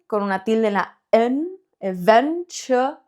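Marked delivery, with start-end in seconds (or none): 1.8-3.0 "eventu-" broken off slowly before the ch; slow syllable break. Shown as a demonstration. Teacher slowing down "eventu-" for learners, deliberate. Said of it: "ch-, C H".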